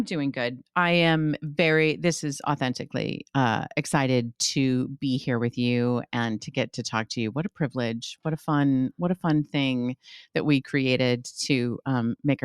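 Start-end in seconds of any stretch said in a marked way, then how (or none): none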